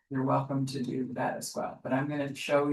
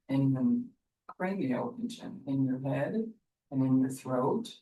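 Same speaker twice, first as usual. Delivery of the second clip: guided meditation. Acted. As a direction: ease them inward, gently. Leads into meditation.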